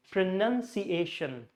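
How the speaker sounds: "pronunciation" with stress on "nun" and "Asian"; two clear stresses. Shown as a demonstration. Teacher modelling the word for learners, "pronunciation" with two stresses. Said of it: "None here and Asian here".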